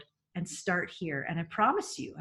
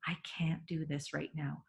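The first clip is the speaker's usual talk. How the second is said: calm walk-away line; 3 semitones lower, 6 dB quieter than usual. Shown as a demonstration. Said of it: "you say".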